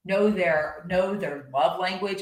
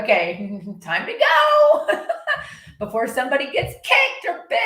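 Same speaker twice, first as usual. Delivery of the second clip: laughing; 8 semitones higher, 4 dB louder than usual. Retold or imitated. Owner laughing to herself about leaving before a kick. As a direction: giggle through it as you hurry off. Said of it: "And I'm like".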